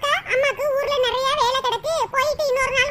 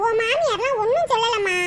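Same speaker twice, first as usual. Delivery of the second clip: tearful; 3 semitones lower than usual. Acted. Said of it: "ஏம்மா அழுகுற?".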